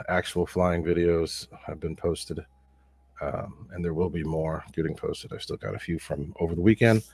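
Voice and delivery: slightly stuffy, congested voice; allergy-clogged voice, a bit off; allergies. Real, not acted. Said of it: "Voice is kinda weird because of, um, allergies".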